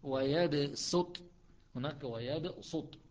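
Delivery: ويبسط said very slowly with S; Hafs reading. Shown as a demonstration. Teacher modeling Hafs pronunciation to students. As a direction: draw out ويبسط with a light S. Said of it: "حفص فعلى الأصل".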